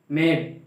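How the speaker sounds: "मेड" with a lengthened vowel; long vowel. Shown as a demonstration. Teacher modelling long vowels, "मेड" with its vowel drawn out. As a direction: hold the vowel in "मेड" a little. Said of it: "मेड नहीं बोलते".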